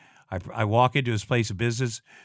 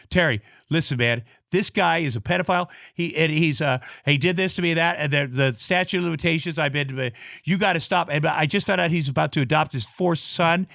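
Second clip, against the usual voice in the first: retold yelling; 4 semitones higher than usual. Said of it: "like, I was yelling".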